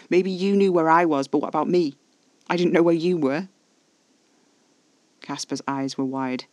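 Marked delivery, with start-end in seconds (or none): 0.1-3.5 louder, higher, indignant retort; hissed back. A narrator's reading. Alfie confronting Caspar over being left, angry and indignant. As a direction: throw the accusation back, hurt and angry. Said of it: "I hissed back".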